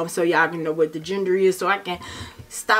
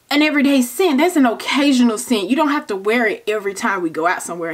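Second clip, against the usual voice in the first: exasperated; 5 semitones higher, faster than usual. Retold or imitated. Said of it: "I'm like".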